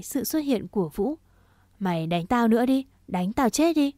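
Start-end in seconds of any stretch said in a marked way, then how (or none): 1.8-3.9 louder, pitch climbing into a challenge; angry dare. Acted. Đạt dares Vũ to hit him, angry and louder. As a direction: goad him to keep hitting.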